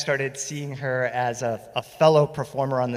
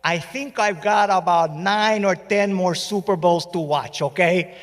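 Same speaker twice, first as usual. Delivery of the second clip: lightly voiced old father; 4 semitones higher than usual. Voicing his elderly Cuban dad.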